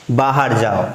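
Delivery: curt command. Shown as a demonstration. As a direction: snap it as a command. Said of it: "सीधा भगाओगे तो बुरा लग जाएगा".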